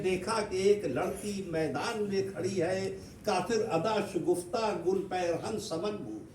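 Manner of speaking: measured, lilting verse recitation; poetry recital. Acted. Poet reciting a train journey to admirers, lilting recitation. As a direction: declaim each couplet with ringing line openings.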